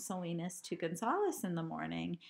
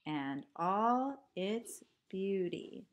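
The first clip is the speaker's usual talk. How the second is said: slow recited line; slower than usual. Shown as a demonstration.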